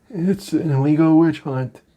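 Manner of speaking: a hint of a mock presidential complaint; Donald Trump. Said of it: "the president blasted the conviction".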